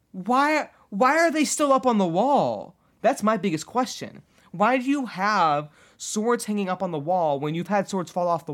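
high, loud, incredulous wail; exasperated disbelief. Real, not acted. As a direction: demand an answer at the top of your range. Ranting in disbelief at the story.

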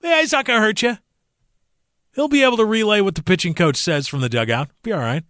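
high, breezy imitation of a baseball insider; hammed-up folksy scout voice; mock scout talk. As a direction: parody the casual scout vouching for a weak player. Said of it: "they go".

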